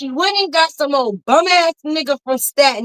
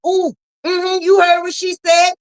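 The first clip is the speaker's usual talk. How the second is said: gossipy viewer; 5 semitones higher than usual. Pretend.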